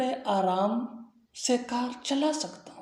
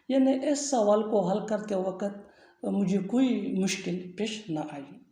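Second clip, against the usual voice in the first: usual speaking voice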